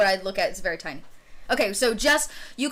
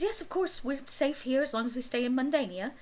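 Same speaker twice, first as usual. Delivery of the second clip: a hint of a mother reassuring her daughter; mother's voice; 2 semitones higher, 4 dB quieter than usual. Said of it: "Oh, she says".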